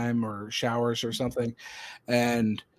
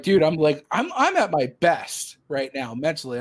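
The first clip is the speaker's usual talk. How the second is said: higher, insistent retold objection; exasperated protest; 4 semitones higher, 3 dB louder than usual. Employee protesting he is doing his best, exasperated. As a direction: plead your case, mildly exasperated.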